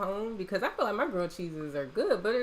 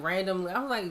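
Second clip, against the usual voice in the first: normal talking voice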